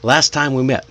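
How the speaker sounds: "Last time" joined with one t inside the phrase; linked together. Shown as a demonstration. Teacher uses linked phrase in example, flowing. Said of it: "link it together".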